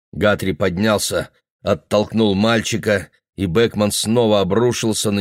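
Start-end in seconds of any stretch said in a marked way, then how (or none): none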